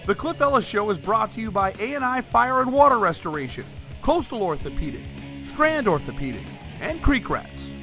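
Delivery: sponsor announcement. Acted. Announcer telling viewers who brought them the show, sponsor read.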